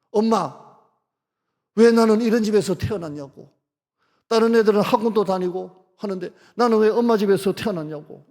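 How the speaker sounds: 높고 크게 엄마에게 소리치기; 원망하며 악쓰듯 외쳐. Retold or imitated. Angry child yelling at mom. (가난한 집 아이가 엄마에게 원망하며 외침)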